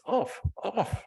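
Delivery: put-on high, insistent little girl; child's demand. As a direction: quote a toddler's protest. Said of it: "she says".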